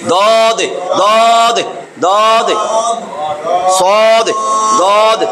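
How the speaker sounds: দদ repeated crisply, tongue edge on the upper molars; repeated letter drill. Shown as a demonstration. Teacher drilling দদ for students, repeating each sound. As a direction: drill দদ over and over. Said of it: "এটারে বাংলায় যদি বলেন তাহলে এরকম".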